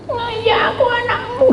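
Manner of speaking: high, squeaky voice for the dog, laughing; voicing the pet in a silly high voice; dog's reply. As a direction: play the puppy answering in a tiny high voice.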